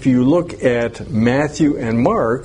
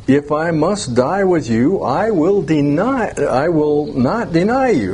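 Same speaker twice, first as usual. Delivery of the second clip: Peter's protest read with firm emphasis, a bit higher; emphatic vow; 3 semitones higher than usual. Retold or imitated. Peter vowing loyalty to Jesus, emphatic and higher. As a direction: insist it, leaning on will not deny. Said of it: "But he said emphatically, this is Peter".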